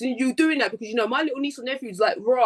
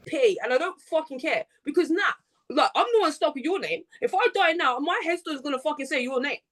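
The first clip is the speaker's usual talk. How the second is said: real anger; 3 semitones higher than usual. Real, not acted. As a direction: tell the ex she can wait, in real anger. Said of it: "I'm sorry for my anger".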